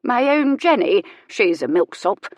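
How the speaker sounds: high, slow fond dismissal; old lady, fond scorn. Acted. Old lady tells the reverend about Jenny, slow fond scorn. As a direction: dismiss her own daughter fondly.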